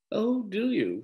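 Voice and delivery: bland. Acted. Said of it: "said Mamma blandly".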